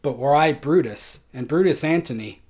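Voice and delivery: Antony's oration, building and falling with feeling; dramatic Shakespeare recitation. Acted. Teacher performs Antony's speech for the class, theatrical recitation. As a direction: declaim the verse like a stage actor.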